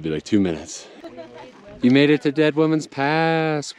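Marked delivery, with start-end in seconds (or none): 1.8-3.8 bright, lifted cheer at the summit; excited. Real, not acted. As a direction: celebrate reaching the top.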